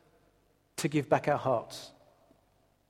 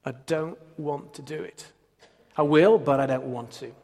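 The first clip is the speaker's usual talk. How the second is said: retold weeping. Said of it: "just weeping my heart out and saying".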